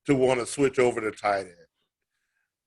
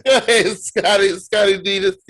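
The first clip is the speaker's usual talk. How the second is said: hype call; 6 semitones higher, 7 dB louder than usual. Real, not acted. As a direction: pump up your buddy's turn. Hyping cohost to take turn.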